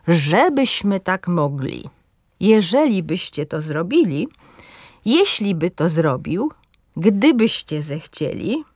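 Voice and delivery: ŻEbyśmy, JEżeli byście, GDYbyście, stressed on the third-last syllable. Shown as a demonstration. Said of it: "akcent pada na trzecią sylabę".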